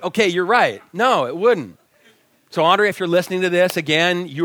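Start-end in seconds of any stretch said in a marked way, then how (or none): 0.0-1.8 conceding, laughing. Retold or imitated. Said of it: "had to concede".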